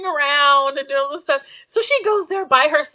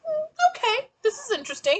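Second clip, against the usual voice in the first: amused laughing; 12 semitones higher, faster than usual. Retold or imitated. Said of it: "and I'm like".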